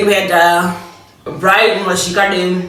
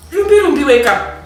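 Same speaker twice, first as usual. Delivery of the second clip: calling to wake her; 6 semitones higher than usual. Retold or imitated. Waking sleepy cousin at six.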